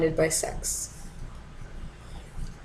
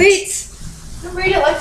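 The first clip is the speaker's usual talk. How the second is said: sudden shout; 11 semitones higher than usual. Real, not acted. Interrupts partner's poem reading.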